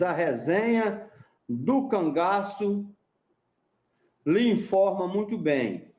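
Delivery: slow, spaced-out recital of the verse; reciting a mote. Shown as a demonstration. Explaining a mote to the interviewer, slow deliberate recital. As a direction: lay out each word of the mote slowly. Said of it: "Por exemplo, você diz".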